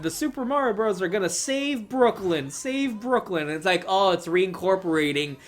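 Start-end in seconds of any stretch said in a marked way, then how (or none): 0.0-3.4 higher-pitched imitation of a glitchy advert; glitching TV commercial. TV commercial glitching out at Mario, mock ad voice. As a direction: imitate an ad stuck repeating itself, pitched up. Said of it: "glitching out and being like".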